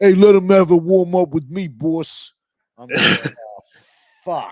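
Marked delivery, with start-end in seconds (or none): 0.0-2.3 really fake, loud, high Italian New York accent. Retelling how a man was handed the microphone, the speaker does a fake italian new york accent. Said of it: "he put on that really fake Italian New York accent".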